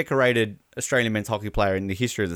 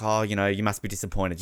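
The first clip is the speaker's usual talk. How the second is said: reporter quote; 6 semitones lower, 6 dB quieter than usual. Retold or imitated. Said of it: "it's like".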